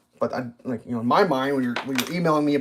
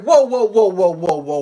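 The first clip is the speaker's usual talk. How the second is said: mock whoa; 3 semitones higher, 6 dB louder than usual. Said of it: "And I was like".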